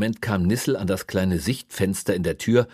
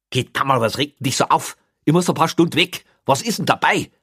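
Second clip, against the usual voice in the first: louder, higher exasperated voice; exasperated policeman; 8 semitones higher, 6 dB louder than usual. A narrator's reading. Policeman asking prisoner what the fuss is, exasperated. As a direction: protest in loud disbelief.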